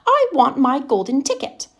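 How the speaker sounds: high, loud bratty demand; spoiled girl screaming. Retold or imitated. Father imitates his daughter demanding her ticket, high bratty scream. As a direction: shriek it like a spoiled brat. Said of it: "she would scream at me".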